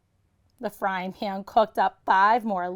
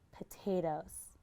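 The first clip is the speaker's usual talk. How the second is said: much softer, breathy hush; whisper; 3 semitones lower, 13 dB quieter than usual. A narrator's reading. Narrator hushing while sniffing, whispered. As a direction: breathe the word in wonder.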